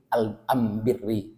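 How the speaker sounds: am birri with am stressed, not al; am in place of al. Shown as a demonstration. Teacher shows dialect am replacing al. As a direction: lean on am in am birri. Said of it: "bukan al birri".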